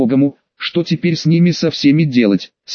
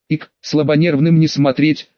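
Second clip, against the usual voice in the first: put-on hiccuping drunk rat. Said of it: "сказал крыс с икотой".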